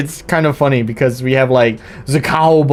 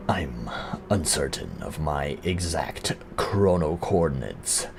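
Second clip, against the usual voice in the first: lightly voiced mysterious hero, lower and softer; game character voice; 8 semitones lower, 10 dB quieter than usual. Streamer voicing the hero's lines, lower and softer. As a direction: read it low and hushed, a touch of an urgent dreamer.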